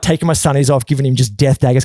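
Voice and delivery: ordinary talk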